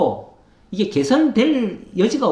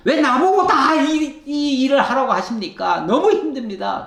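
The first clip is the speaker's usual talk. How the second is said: weary complaint to God; 5 semitones higher than usual. Acted. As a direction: drag it out like a worn-out leader begging. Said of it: "하나님 앞에 하소연".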